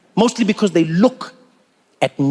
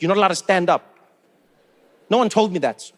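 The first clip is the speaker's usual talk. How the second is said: ordinary delivery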